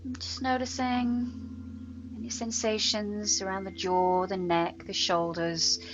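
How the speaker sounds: unhurried meditation voice with long pauses; guided meditation. Real, not acted. Yoga teacher settles students into breath awareness, guided meditation. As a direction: guide them gently into steady breathing, letting words linger. Leads a body scan.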